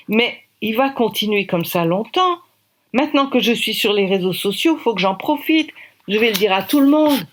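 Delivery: put-on a young woman vowing to tell everyone; girl's voice rising in indignation; indignant girl. Girl vows to expose him.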